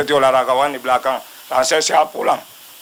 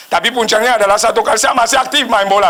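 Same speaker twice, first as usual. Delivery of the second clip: higher, insistent build-up on "puncaknya" and "aktif main bola"; emphatic stress; 6 semitones higher than usual. Real, not acted. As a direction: stress "puncaknya adalah satu kali" with raised pitch. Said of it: "Ini saya tekankan".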